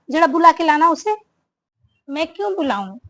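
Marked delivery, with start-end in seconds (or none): 0.1-1.2 loud, curt order; angry command. Acted. Mother-in-law loudly orders the bahu to fetch the younger one. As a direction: demand she fetch the girl right now.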